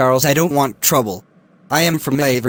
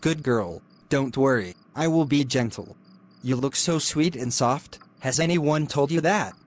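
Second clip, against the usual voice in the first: creepy hushed coaxing; 7 dB quieter than usual. Acted. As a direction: coax her in a hushed, creepy voice. Lecturer coaxing the student.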